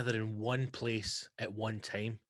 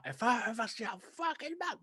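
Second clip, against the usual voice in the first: mock anger; 10 semitones higher, 5 dB quieter than usual. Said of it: "I'm like".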